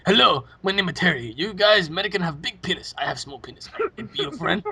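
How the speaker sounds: broken English in a put-on accent; halting, accented mock introduction; mock foreign accent. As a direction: imitate a teammate's foreign accent act. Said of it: "he goes in there with a different fucking accent".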